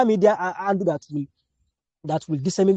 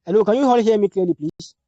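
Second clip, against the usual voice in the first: raised voice, checking the line; calling from far away; 4 semitones higher, 4 dB louder than usual. Real, not acted. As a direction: call out to a remote audience. Checking if online class hears.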